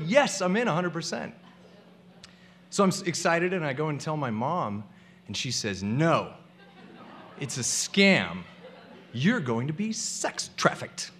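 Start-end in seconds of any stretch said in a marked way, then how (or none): 5.8-11.1 worried mom. Retold or imitated. Mom warns him.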